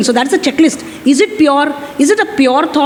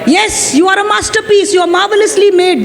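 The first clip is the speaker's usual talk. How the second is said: higher-pitched, emphatic self-affirmation; 4 semitones higher than usual. Shown as a demonstration. Preacher models answering an ugly thought with God's word, emphatic affirmation. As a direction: declare it as a firm answer. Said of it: "This is what I should say".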